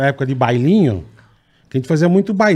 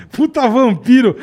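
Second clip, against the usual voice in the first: higher, slower, laughing through the words; 9 semitones higher than usual. Real, not acted. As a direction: laugh at yourself while saying it. Laughing at own costume story. (rindo de si mesmo)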